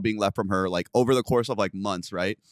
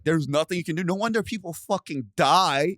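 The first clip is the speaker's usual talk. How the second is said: exasperated disbelief; 5 semitones higher than usual. Retold or imitated. Fed up with police doing nothing, exasperated. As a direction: complain in pitched-up disbelief. Retold frustration at police's answer.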